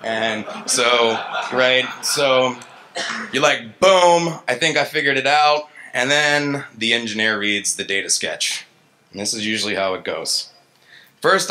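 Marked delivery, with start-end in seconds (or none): 3.8-5.7 a sudden loud, higher "Boom" of triumph; triumphant. Retold or imitated. Engineer finding the paper, triumphant. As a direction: crow it like you just cracked it. Engineer thinks he's solved it.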